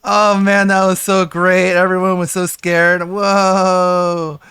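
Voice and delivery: hammed-up triumphant laughter; gloating laugh. Mocking Wings and Keemstar after their prank, laughing loudly. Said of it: "they're like".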